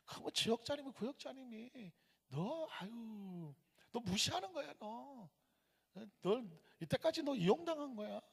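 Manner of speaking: the devil softly poisoning the listener's mind; devil's insinuating voice. Retold or imitated. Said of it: "이건 마귀가 하는 거예요". (훨씬 작게 속삭이듯 꾀는 마귀 목소리)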